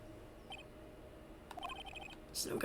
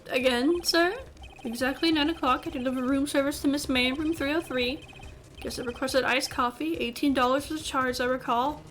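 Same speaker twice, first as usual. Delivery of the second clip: put-on English bellboy testimony; horrible English accent. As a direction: recite it in a mock English accent. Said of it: "saying it in this horrible English accent".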